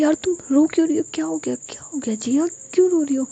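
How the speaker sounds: high, fast, anxious questioning; frantic worry for a crying friend; panicked concern. Acted. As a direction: rush the questions in alarm. Friend panics seeing her cry.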